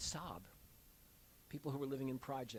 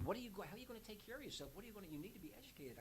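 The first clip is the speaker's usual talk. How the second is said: worried father; 8 semitones higher, 7 dB quieter, much faster than usual. Retold or imitated. Father objects to quitting college.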